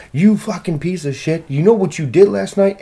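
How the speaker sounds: hammed-up angry yell; mock angry friend. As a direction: play the friend laying into you. Angry friend quoted in a story.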